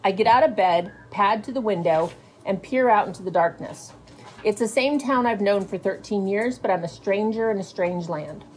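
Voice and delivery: unhurried storytelling read-aloud, lingering on images; teacher reading a novel aloud to her fifth grade class. A narrator's reading. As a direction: draw the kids into the scene as you read. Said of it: "Many teachers stop reading out loud to students in older grades, but not this teacher".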